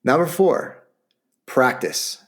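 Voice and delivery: upbeat sales-pitch read; infomercial voice. Acted. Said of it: "I'm starting to sound like an infomercial".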